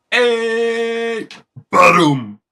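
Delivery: loud high cheer; triumphant shout. Real, not acted. Streamer cheering his own joke, loud triumphant shout.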